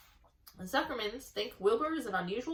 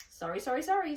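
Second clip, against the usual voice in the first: apologetic gander; 6 semitones higher, 4 dB louder than usual. A narrator's reading. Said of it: "said the gander".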